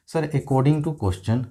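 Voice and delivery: slow, relaxed student reply; calmly. Retold or imitated. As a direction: stretch each word out, unhurried. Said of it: "अब देखिए आराम से कहेंगे". (आराम से, धीरे धीरे बोलते हुए)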